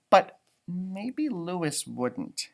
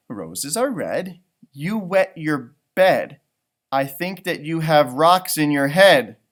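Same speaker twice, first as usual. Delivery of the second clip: teasing poem; 6 dB louder than usual. Acted. Child's teasing poem read out.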